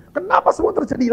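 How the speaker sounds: imitating a distraught friend's shout; mock yell. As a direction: play the frantic friend crying out. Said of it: "kok kamu teriak-teriak begini?".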